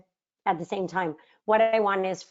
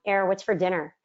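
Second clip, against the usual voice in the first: an easy, innocent ask with nothing behind it; husband innocently asking what's for dinner; innocent question. Retold or imitated. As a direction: toss it off lightly, like a husband just home from work. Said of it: "just very innocently, naively".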